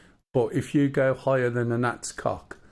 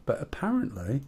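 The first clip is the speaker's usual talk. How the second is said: storyteller voice. Acted. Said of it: "his proper storyteller voice".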